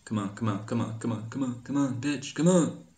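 rising impatient come on; building come on. Real, not acted. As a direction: build the pleas up to a shout. Urging the game on.

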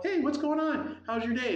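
high, chirpy parental hello; cheery greeting. Retold or imitated. Dad greets daughter in a story.

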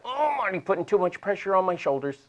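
high-pitched mock complaint; hammed-up "oh" of discomfort; mock strain. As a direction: pretend it's too much pressure. Voices a strained body's complaint.

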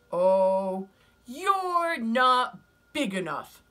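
loud, high, slow and sneering; scornful ladybug voice. Acted. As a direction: dismiss them from up high.

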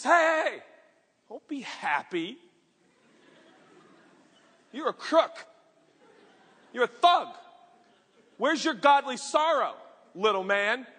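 loud stern rebuke of a crook; a hammed-up telling-off; mock scolding. Mock Jesus scolding Zacchaeus.

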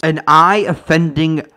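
lightly voiced Gargamel; imitating Gargamel. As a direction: spit it like a villain.

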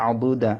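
আবু দা with a thick Arabic Dad in the middle; heavy DAD. Shown as a demonstration. Teacher models the word for students, thick Dad in আবু দা. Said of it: "দত মোটা হবে".

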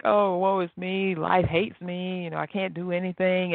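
slow, hammed-up woe-is-me whine; mock self-pity. Mocking viewers who cry over the wrong thing, slow mock whine. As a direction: drag it out like a pitiful sulker, not meant. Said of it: "you're boo-hooing".

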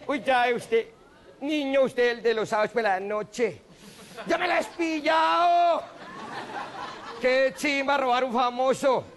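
slow, put-on thief voice with a shouted burst; mock robber voice. Comedian voicing the robber who recognizes him, hammed-up. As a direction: drawl it out like a starstruck thief. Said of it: "Me dijo".

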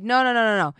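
arguing with her friend, slowly and in disbelief; incredulous rant. Retold or imitated. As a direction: lay out each word in outraged disbelief. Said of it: "I'm like".

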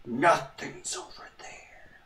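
slow, breathy whisper while sneaking. Pretend. Sneaking through the station, a slow whisper. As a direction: hush it so nobody hears.

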